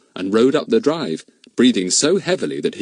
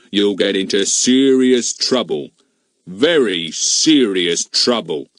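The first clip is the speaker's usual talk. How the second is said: pompous policeman. Acted. Goon warns the children.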